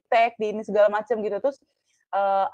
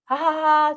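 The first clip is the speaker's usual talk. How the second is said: mock "haha" laugh, pitched up; imitated laugh; 6 semitones higher, slower than usual. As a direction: act out a token laugh. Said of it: "ketawa-tawa gitu kan". (tiruan tawa)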